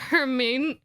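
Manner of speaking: "Herman" drawn out with a rising end; a careful attempt that still lands on "Herman"; botched name. Date tries after coaching, "Herman" stretched and uncertain. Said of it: "can't quite get her name down".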